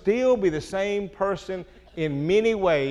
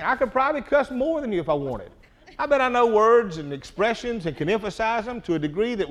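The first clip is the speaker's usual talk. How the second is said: chuckling through the boast; laughing; 5 semitones higher than usual. Real, not acted. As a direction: laugh while bragging. Boasting he can out-cuss him.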